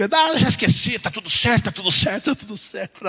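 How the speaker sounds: imitação em tom agudo, repetitiva, sumindo no fim; irritação mal disfarçada. Retold or imitated. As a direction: finja que perdoou, mas deixe escapar a irritação. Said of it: "o tom da voz dizia que não tava meio certo". (falso perdão irritado, imitado)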